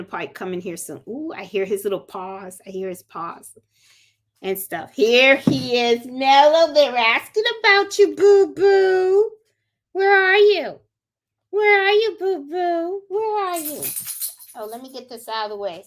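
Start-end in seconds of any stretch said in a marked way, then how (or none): 4.9-13.8 high, loud doting call to a dog; singsong voice for calling the dog; excited pet talk. Real, not acted. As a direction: coo and call to your pet, pitched way up. Greets and calls her dog.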